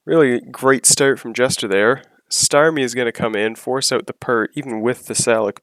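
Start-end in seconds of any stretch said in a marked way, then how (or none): 0.1-2.0 laughing. Real, not acted.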